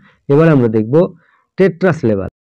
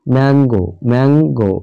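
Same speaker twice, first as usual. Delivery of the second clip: ম্যাঙ্গো in two beats, ম্যাং, then গো; syllable by syllable. Shown as a demonstration. Teacher shows mango has two syllables, ম্যাঙ্গো split as ম্যাং-গো. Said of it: "দুবারে উচ্চারণ হচ্ছে".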